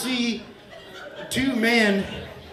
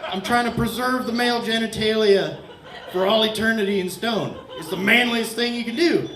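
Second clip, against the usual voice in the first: lightly voiced Michelangelo; 3 semitones higher than usual. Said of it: "and he's like".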